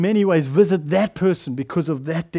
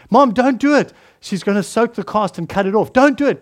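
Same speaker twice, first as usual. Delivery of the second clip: put-on alarmed child; 3 semitones higher than usual. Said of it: "he said".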